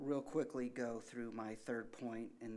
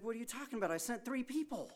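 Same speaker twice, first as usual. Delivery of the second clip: much higher, incredulous; you can't be serious; God answering the drowned man, exasperated; 10 semitones higher, much faster than usual. Retold or imitated. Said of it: "he's like".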